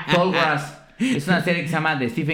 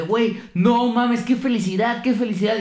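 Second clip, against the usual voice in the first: mock joy; 7 semitones higher than usual. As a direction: ham up the cabbie's delight. Cabbie celebrating lottery win. (alegría exagerada, aguda y lenta)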